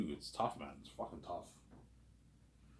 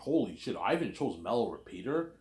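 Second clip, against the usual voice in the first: mock shocked; 3 semitones higher than usual. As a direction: act out a mild, disbelieving outcry. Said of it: "the people will be shocked".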